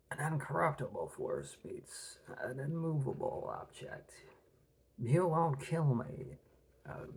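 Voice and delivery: lightly voiced raspy villain; menacing whispered villain lines; a hint of the Joker's menace; Heath Ledger Joker. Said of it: "Heath Ledger, Joker".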